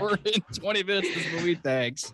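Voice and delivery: drawling boss monotone; lazy corporate boss voice; Bill Lumbergh voice. Retold or imitated. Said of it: "Bill Lumberg on it".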